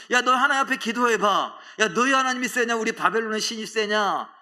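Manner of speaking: loud, high-pitched jeering challenge; mocking taunt. Babylonians to the captive believers, mocking loudly. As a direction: jeer at them, daring them to pray. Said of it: "조롱하죠".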